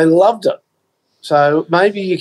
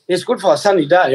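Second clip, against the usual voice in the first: lightly imitated Chinese-accented shopkeeper; a salesman's mild mock Chinese accent; 2 semitones higher than usual. Shopkeeper talking a customer into a hat, mock Chinese accent. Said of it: "doing my Chinese accent last week".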